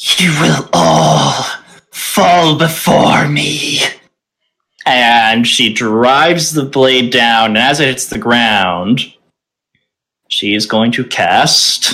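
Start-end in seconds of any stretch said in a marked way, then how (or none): 0.2-3.8 snarling, menacing villain voice. Narrating a battle, the storyteller voices the war priestess raising her blade: snarling. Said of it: "You see her sort of snarl, / And she flips her blade around and raises it as she snarls".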